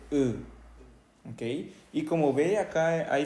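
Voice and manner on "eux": "e" as a long rounded eu; French EU sound. Shown as a demonstration. Teacher gives the word for they, long eu. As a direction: draw out "e" with no consonant after it. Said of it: "que se dice e".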